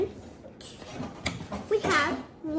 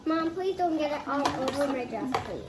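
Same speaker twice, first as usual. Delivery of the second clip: pleading; 4 semitones lower than usual. Real, not acted. Child asking mom to spare the dress, pleading. Same protest repeated as plea.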